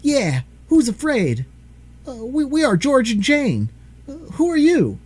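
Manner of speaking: put-on high child voice shouting over noise; loud child voice. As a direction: call out over the howling. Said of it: "speaking very loud".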